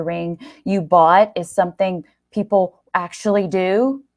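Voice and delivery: bitter. Acted. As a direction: throw the betrayal at them. Gary bitter accusation.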